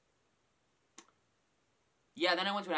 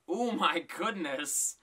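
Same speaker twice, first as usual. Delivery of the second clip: slow drawn-out; 3 semitones higher, 4 dB louder, much slower than usual. Real, not acted. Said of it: "repeated after the plain take".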